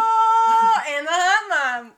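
high loud laughing exclaim; laughing excitedly. Real, not acted. Echoing her friend about the hot mom, laughing. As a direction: burst out laughing with delight.

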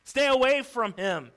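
high, loud warning yell; alarmed yell. Acted. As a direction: yell like a mother protecting her child. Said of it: "A mother quickly grabbed her child and yelled".

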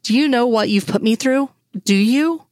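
mildly heated, demanding an answer; understated fury, rising in pitch; angry challenge. Acted. Furious woman confronts him in quarrel.

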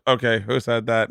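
lightly imitated computer-voice teacher; a hint of monotone synthesized speech; Stephen Hawkins. Hawkins-like teacher questions his class, mock computer voice. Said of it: "teaching a class full of kids in a wheelchair like Stephen Hawkins".

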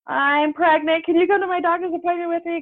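high, tearful plea; a mild mock sob of a plea; retold bawling. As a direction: daughter begging her mom on the phone, high and tearful. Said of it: "I'm bawling my eyes out".

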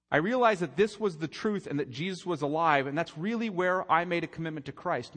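quoting his testimony. Retold or imitated. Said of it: "he says".

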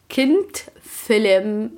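كنت فيلم stretched out very slowly; slow emphasis. Shown as a demonstration. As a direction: drag out كنت فيلم word by word. (كنت فيلم ببطء شديد)

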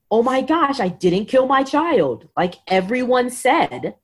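mock-crying disbelief, drawn out; retold crying. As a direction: act lightly overwhelmed, pitch lifted.

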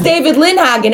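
imitating a first speaker. Boyfriend repeating the newcomer's name, mock recognition. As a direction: say the name up high as a retold line. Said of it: "Jacob says".

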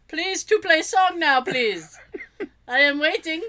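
light broken-English Russian plea; a hammed-up Russian caller, impatient; mock Russian accent. Friend mimics the caller again, in a light mock Russian accent.

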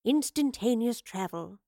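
slow, drawn-out musing. A narrator's reading. Professor ponders the stolen teleport, musing. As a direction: savour the thought slowly. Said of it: "she mused".

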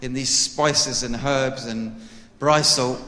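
badly faked South African accent. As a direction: mimic the host's South African accent, not quite landing. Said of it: "That was my South African attempt".

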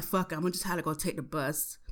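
soft, quick resigned aside; resigned under breath. Retold or imitated. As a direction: give up quietly and fast. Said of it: "I'm like".

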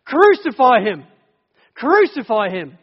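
slow, loud, high shouted chant; mob shout. Retold or imitated. Preacher voicing the crowd demanding crucifixion, slow loud shout. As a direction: bellow it like an angry mob. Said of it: "he's heard them shouting".

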